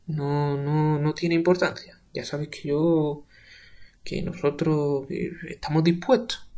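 slow, halting stammer; shy slow stammer. Acted. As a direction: fumble for words. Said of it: "Urbano balbuciente".

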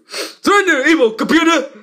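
a cartoon hero yelling up at the villain; hammed-up hero challenge. Hero to the evil computer, hammed-up challenge.

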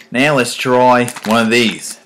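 slow, drawn-out mock Australian accent; hammed-up Australian accent; bad Australian accent. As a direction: stretch it like a clumsy Aussie presenter. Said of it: "my shitty attempt at an Australian accent".

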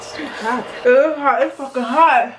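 talking through a burning mouth; mouth burning from spicy food. Real, not acted. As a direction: speak like your tongue is on fire. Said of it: "My mouth burning up".

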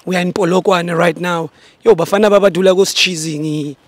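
loud presenter voice; show host intro. Acted. Host introducing the travelling show, loud announcing. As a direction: announce yourself and the crew to viewers.

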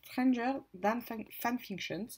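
English title in a French accent. Real, not acted. Vlogger attempting an English book title, French accent. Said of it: "désolée pour mon accent anglais".

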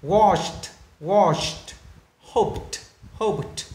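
Washed and Hoped ending on t; no extra syllable, tick the t on Washed, Hoped. Shown as a demonstration. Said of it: "Đều là âm tờ hết". (đọc Washed, Hoped với âm cuối t)

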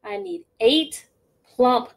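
slow, loud, drawn-out complaint; a weary farmer listing his chores; fed-up farmer. Acted. Farmer grumbling to Gritch about his work.

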